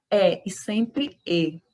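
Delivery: "É" open and then "E" closed, slowly; open versus closed E. Shown as a demonstration. Teacher contrasting the open e with the closed e. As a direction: contrast the two e sounds slowly. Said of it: "esquecer essa pronúncia".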